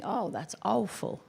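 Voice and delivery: a hint of Patrick's French accent, drawn out; mild French accent imitation; light French accent. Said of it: "as he says in his French accent".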